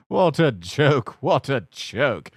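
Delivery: slow, high, amused; chortling. A narrator's reading. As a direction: chuckle it out. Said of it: "He chortled".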